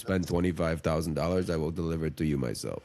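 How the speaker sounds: lightly voiced low rock-star pitch; a hint of a rock band's frontman selling merch; rock musician impression. Podcaster mimics a rock musician hawking coffins, lightly voiced. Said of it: "I don't know why I had a little accent there".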